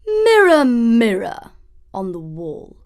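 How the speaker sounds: lightly voiced vain queen calling to her mirror; a hint of a haughty queen; queen asks the mirror. A narrator's reading. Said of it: "she asked".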